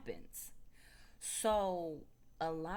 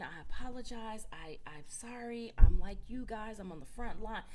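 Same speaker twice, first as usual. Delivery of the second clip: high, pleading apology, barely crying; mock hysterical pleading; 6 semitones higher, 8 dB louder than usual. Nurse caught on camera begs staff, mock hysterical. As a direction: imitate a panicked nurse begging. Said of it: "hysterical, crying".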